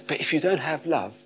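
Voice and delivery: high, soft and halting; hushed letdown. Acted. Preacher deflating the gifted who lack love, hushed. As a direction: drop to a small, gentle voice with long pauses.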